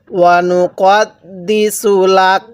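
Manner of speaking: slow recitation, stopping on the last letter; tajweed waqf demonstration; slow recitation with a stop. Shown as a demonstration. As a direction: recite and pause cleanly at the end. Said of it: "জবরকে বাদ দিয়ে কীভাবে পড়ব".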